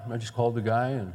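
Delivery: ordinary delivery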